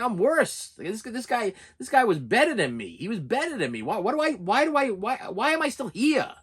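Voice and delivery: high, strained voice on the edge of tears; pleading with yourself, close to crying; choked-up self-reproach, voice breaking; tearful inner voice. Retold or imitated. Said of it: "I'm starting to cry".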